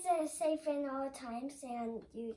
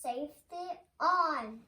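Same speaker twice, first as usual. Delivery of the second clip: louder repeat. Shown as a demonstration. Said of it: "Say it again".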